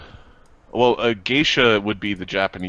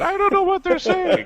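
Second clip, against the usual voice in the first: whiny complaining; 4 dB louder than usual. Retold or imitated. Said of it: "I can start hearing bitching about".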